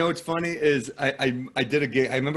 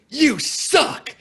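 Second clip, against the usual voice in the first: high, loud, punchy jeer; heckler's shout; 6 dB louder than usual. Retold or imitated. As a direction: imitate an angry heckler yelling a parting insult. Heckler shouts while leaving the show.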